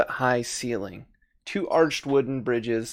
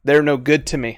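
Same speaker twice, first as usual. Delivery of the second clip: a little more forceful, each word clear; firmer repeat; 3 dB louder than usual. Acted. Creature repeating itself to a confused adventurer, mildly emphatic. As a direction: say it out firmly for someone who missed it. Repeats after listener asks "What?.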